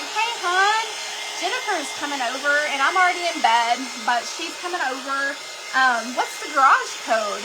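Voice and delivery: sweetly offhand, hiding the trouble; mock nonchalant. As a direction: act like nothing is wrong. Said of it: "I'm all nonchalant".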